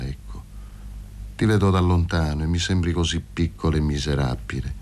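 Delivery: cold sneering man. Acted. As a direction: speak down to him from far above. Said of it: "col solito ghigno frigido". (voce bassa e gelida di scherno)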